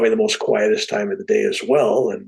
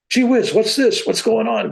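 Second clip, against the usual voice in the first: pitched-up gee-whiz surprise; excited; 10 semitones higher than usual. Pretend. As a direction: play a startled normal person. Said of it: "Get excited".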